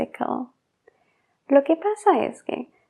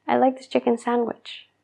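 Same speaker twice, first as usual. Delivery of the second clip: fluid take. Shown as a demonstration. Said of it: "Es más fácil, más fluido".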